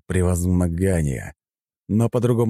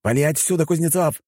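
high, raised dismissal; shouting; 10 semitones higher than usual. A narrator's reading. Zhenya tells the hero to clear off, shouting. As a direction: shout him away. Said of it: "закричал Женя".

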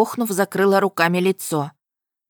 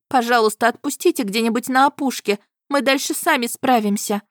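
put-on girl voice; 6 semitones higher than usual. A narrator's reading.

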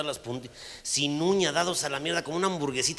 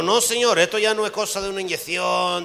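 stern doctor; 4 semitones higher, 7 dB louder than usual. Acted. Doctor gives grave verdict.

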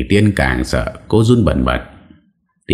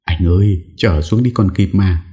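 trembling plea; 4 semitones higher than usual. Acted. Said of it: "run bần bật năn nỉ van xin".

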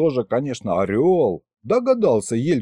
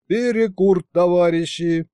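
calling out; 5 semitones higher than usual. A narrator's reading. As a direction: shout a cheery break call. Calling out to the crew.

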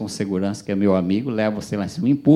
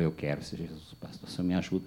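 tearful plea; 5 semitones lower, 10 dB quieter than usual. Retold or imitated. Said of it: "com lágrimas nos olhos".

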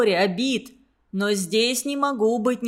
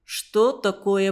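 медленно; 3 semitones lower, slower than usual. Acted. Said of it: "подумал я".

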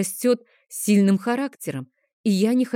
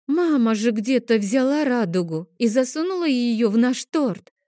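higher, lightly voiced girl hitting back; girl retorting; 5 semitones higher than usual. Sister answers her brother, higher childish retort. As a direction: argue back like a stubborn little girl. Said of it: "Не осталось в долгу Адель".

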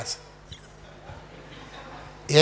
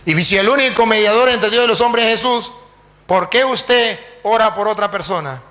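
raised, insistent string of questions; forceful challenge; 3 semitones higher, 4 dB louder than usual. Acted. Priest turns the pastor's argument back on him, forcefully. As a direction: drive each question home emphatically.

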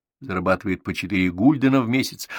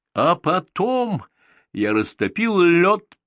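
tearful voice; 9 semitones higher, 5 dB louder, slower than usual. A narrator's reading. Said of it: "со слезами в голосе".

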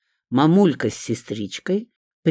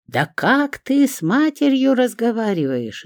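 outraged yell; 9 semitones higher than usual. A narrator's reading. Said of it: "заорала Лидочкина мать".

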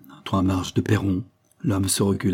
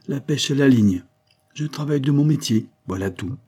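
higher-pitched, lively suspect explaining himself; affable self-justifying chemist; 5 semitones higher, 4 dB louder than usual. Acted. Chemist assures the commissioner he is sane, affably self-justifying. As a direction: reassure in a raised, chatty voice.

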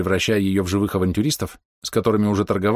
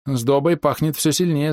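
higher, slow sniffing voice; half-orc voice; 6 semitones higher, slower than usual. Acted. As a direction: savour the smell slowly. Khrabr's voiced line.

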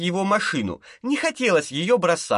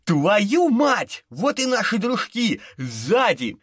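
shouting; 5 semitones higher, slower than usual. A narrator's reading. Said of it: "водитель закричал".

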